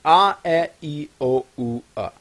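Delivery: "A, E, I, O, U, A" as pure, even vowel sounds; Lojban vowels. Shown as a demonstration. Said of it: "And A as in love".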